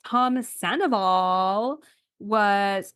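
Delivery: put-on slow, drawn-out Valley Girl; lightly voiced Valley Girl drawl. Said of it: "like, a Valley Girl voice".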